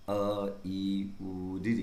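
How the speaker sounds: अ ई उ ऋ clipped short, quick; short vowels. Shown as a demonstration. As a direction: say each vowel briefly. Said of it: "अभी ह्रस्व स्वर में क्या पढ़ा था हमने?". (ह्रस्व स्वर, छोटा उच्चारण)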